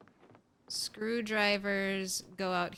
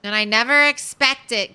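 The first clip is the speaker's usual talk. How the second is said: startled outburst; 3 semitones higher, 13 dB louder, faster than usual. Real, not acted. Startled by game event.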